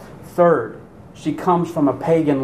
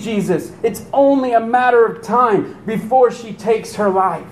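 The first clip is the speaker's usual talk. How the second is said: higher, begging voice of a desperate mother; pleading mother's prayer; 5 semitones higher than usual. Acted. Preacher voicing the desperate mother begging Jesus, pleading. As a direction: plead with Jesus for your daughter's life. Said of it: "can you hear her?".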